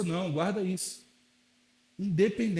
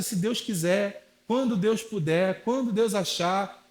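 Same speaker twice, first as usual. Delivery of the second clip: slow, lazy shrug of a phrase; mock the passive believer; apathetic drawl; slower than usual. Pastor mocks passive believers with a slow, lazy tone.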